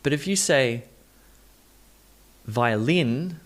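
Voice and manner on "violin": violin stressed on the wrong syllable, rising; wrong emphasis. Shown as a demonstration. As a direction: misplace the beat in violin, questioning lift. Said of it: "if you get the emphasis wrong".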